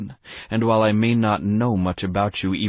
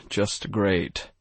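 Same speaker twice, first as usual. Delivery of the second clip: grumbled. Acted. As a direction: mutter "just great" under the breath. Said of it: "I grumbled".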